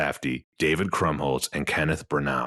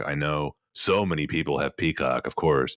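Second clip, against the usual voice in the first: dry, sarcastic aside. Real, not acted. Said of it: "That was sarcasm".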